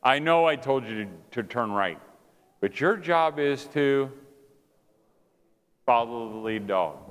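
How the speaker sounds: slow, measured explanation with pauses; patient master. Retold or imitated. Master explaining the job to his dog, patient. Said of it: "The master would say".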